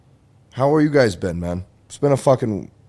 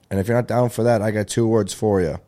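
DX catchphrase setup. Retold or imitated. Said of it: "a little D X reference".

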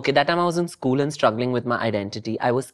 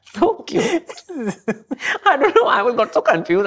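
much higher, excited gushing; high gushing squeal; 11 semitones higher, 3 dB louder than usual. Real, not acted. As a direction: squeal with delight. Gushing over fan messages.

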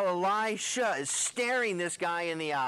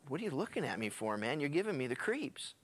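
uneasy retort; 4 semitones lower, 5 dB quieter than usual. Retold or imitated. Hazael retorts to staring prophet.

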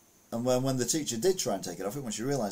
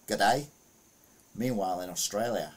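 put-on Australian accent; 3 semitones lower than usual. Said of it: "my Australian accent is beyond crap".

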